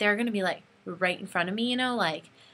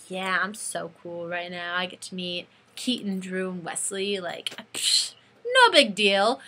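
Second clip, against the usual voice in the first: lower, slower, playing it cool; mock nonchalance; 2 semitones lower, slower than usual. Fan pretending to be cool before meeting the band, nonchalant. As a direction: brush it off like it's nothing.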